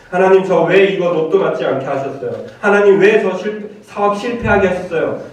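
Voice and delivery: mock a petty grievance to God; complaining to God. Sample prayer griping about lottery and business, complaining. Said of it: "단지 그렇게 투정하라는 얘기가 아니에요".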